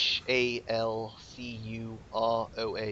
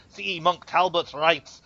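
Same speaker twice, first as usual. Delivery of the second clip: put-on grave old cleric intoning; templar priest voice; 5 semitones higher than usual. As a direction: speak as a solemn templar.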